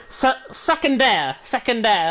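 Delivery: Secondaire said slowly in a French accent. Shown as a demonstration. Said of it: "put the best French accent on".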